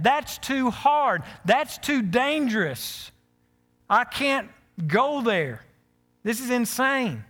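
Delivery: high, loud, slow incredulous protest; reluctant objection. Retold or imitated. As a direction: plead your way out of the job, slowly. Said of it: "the same thing that I would have said".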